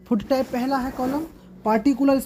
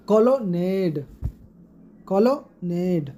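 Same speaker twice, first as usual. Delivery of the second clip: colonnade with the last syllable stressed; "colonnade", split slowly, weight on the end; anapest stress; 4 semitones lower, much slower than usual. Shown as a demonstration. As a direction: stretch NADE at the end of "colonnade". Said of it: "unstressed और stressed syllable आएगा".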